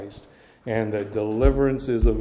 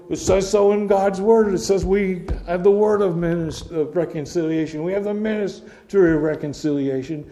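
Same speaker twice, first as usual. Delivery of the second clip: emphatic retort; 5 semitones higher, 4 dB louder than usual. Retold or imitated. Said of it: "And we go".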